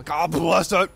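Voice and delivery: loud burst of frustration; mild curse at full volume; exasperated yell. Real, not acted. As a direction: yell it at the game. Yells at the game.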